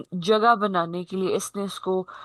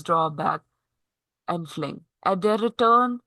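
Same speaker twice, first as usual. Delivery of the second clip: poem reading. Acted. Teacher reading the first stanza to the class, measured recitation. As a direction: read the verse aloud phrase by phrase.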